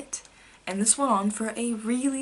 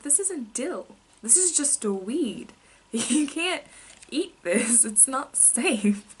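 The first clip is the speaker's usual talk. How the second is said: worried mom; 5 semitones higher, slower than usual. Retold or imitated. Mom warning child about weed.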